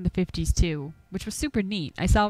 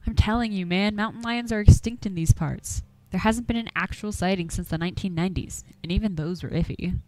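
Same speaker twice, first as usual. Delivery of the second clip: lightly voiced old country hunter, grumbling; a hint of a gruff Appalachian old-timer warning folks off; 4 dB louder than usual. Game master voicing Duke, shooing the players from his woods, gruffly.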